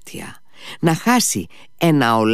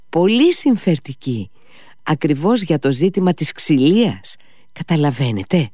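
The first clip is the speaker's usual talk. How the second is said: higher, urgent, persuading; insistent Mitya; 4 semitones higher than usual. Acted. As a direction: sell the offer hard. Mitya presses his offer.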